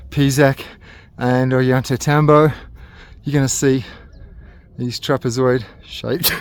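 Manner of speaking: out of breath from climbing. Real, not acted. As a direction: talk breathless after a climb. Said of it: "a little bit out of breath from the climb".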